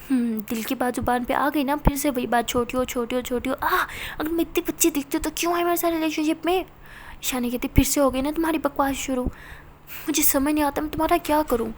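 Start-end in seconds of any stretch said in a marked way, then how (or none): 0.1-6.6 hurt, loud complaint. Acted. Pari hurt, arguing with Ishani. 7.7-11.7 louder fed-up scolding; exasperated outburst. Acted. Ishani exasperated at Pari.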